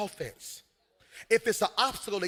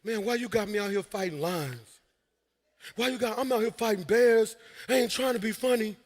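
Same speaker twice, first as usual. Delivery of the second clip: whiny complaining David; 2 semitones higher, 4 dB louder than usual. Retold or imitated. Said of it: "That's what you sound like".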